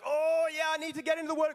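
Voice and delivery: high, loud mock enthusiasm; mock eagerness. Preacher mimicking believers setting out to read the Word, mock eager. Acting out eager would-be Bible reader.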